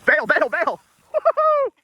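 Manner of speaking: yelling while sliding down; whooping down the hill; sledding downhill. Real, not acted.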